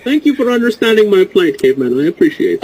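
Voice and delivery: Bane impression. Thanking Caveman for understanding, low Bane voice. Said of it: "go to Bane for clearing his throat while he's wearing a mask".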